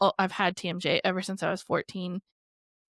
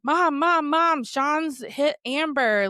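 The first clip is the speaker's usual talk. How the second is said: panicked call; 7 semitones higher, 5 dB louder, much slower than usual. Retold or imitated. Sister panicking, typing to mom.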